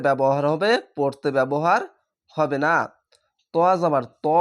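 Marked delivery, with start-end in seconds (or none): 3.5-4.3 ত as a thick, rounded "to"; heavy letter. Shown as a demonstration. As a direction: read ত heavy, without "aa". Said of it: "মোটা করে একটু পড়তে হবে". (ত, মোটা করে পড়া)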